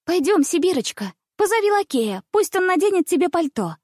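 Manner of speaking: put-on high, eager girlish urging; rushing her friend along; hurrying. A narrator's reading. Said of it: "заторопилась она". (торопливо)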